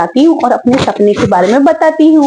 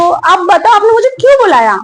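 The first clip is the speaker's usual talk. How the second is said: higher and fast, क्यों stressed; impatient rush; 4 semitones higher, faster than usual. Acted. Daughter-in-law pressing her mother-in-law again, impatient and fast. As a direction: fire the question off, fed up. Asks repeatedly, growing impatient.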